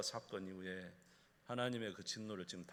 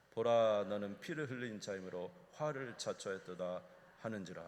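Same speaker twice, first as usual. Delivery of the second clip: a hint of solemn reading voice; scripture reading; 3 dB louder than usual. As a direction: read the verses like a pulpit lesson. Reads the Bible passage aloud.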